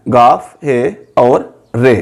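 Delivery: गाफ, हे, रे each named slowly with pauses; slow letter naming. Shown as a demonstration. Teacher spelling गोहर letter by letter, slow. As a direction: dictate the three letters carefully. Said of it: "इसमें तीन हरूफ हैं".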